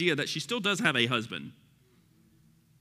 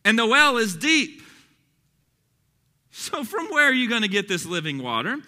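raised, loud preacher's reading; emphatic scripture reading; 7 semitones higher, 5 dB louder than usual. Acted. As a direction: read the verse out with force. Reads scripture aloud to congregation.

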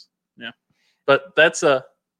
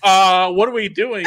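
higher, wary retold question; uneasy confusion; 5 semitones higher, 4 dB louder, slower than usual. Drunk guest asks the husband at the door, uneasy confusion. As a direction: play up a mild alarm.

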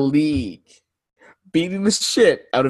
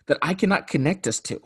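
Stephen A. Smith rant; 5 semitones higher than usual. Acted. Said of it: "Yes, Stephen A. Smith".

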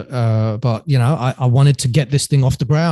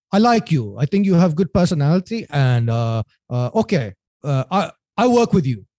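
imitated German accent, pitched up; Norbert; 2 semitones higher than usual. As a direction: put on a wandering German accent. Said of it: "for my German accent".

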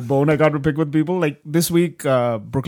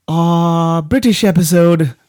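louder, drawn-out British attempt; bad British accent; 6 dB louder, much slower than usual. Host naming the British episode, bad British accent. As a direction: announce it in a badly faked British accent. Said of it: "I can't do a British accent".

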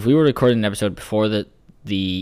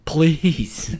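mock pleading; 8 semitones higher than usual. Begging Liam playfully.

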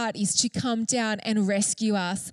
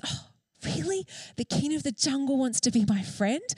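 amazed little mouse; 2 semitones higher than usual. Acted. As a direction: play a small mouse who can't believe his luck.

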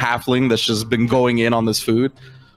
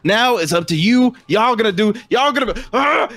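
very high, sputtering goblin rant; frustrated goblin; 11 semitones higher than usual. Acted. Goblin blaming the party, high frustrated sputter. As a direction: build higher until words give out in a cry.

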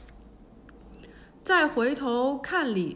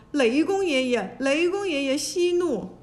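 louder, desperate begging; frightened pleading; 3 semitones higher, 4 dB louder than usual. A narrator's reading. Terrified monks beg the thunder god, loud and pleading. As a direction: plead for your life, prostrate.

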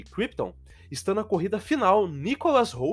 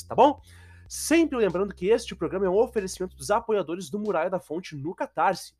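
usual speaking voice

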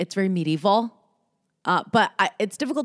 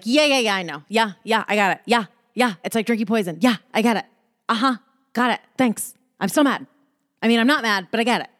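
mildly dismissive, repeated acknowledgements; brushing it off; 3 semitones higher, faster than usual. Acted. Pretending to be over a familiar saying, brushing it off. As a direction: act like it's fine, brushing it aside. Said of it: "brushing over shit".

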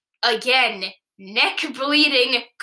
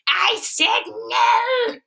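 shout; 11 semitones higher, much slower than usual. Acted. Main cat shouting back at bully.

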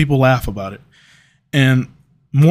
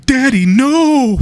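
put-on high, slow pleading wail of a scared kid; mock child scream; 11 semitones higher, 3 dB louder, much slower than usual. The speaker imagining himself as a kid, begging, mock scream. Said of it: "I'd be screaming".

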